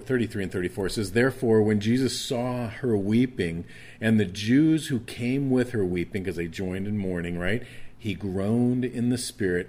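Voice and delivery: preaching. Acted. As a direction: preach it out to the congregation, building. Preaching scripture at full force.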